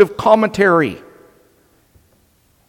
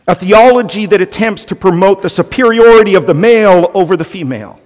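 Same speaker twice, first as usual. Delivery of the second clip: louder, driving denunciation; forceful; 2 semitones higher, 5 dB louder, faster than usual. Real, not acted. Preacher denouncing caveman theology to the congregation, forceful. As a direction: preach it hard against the idea.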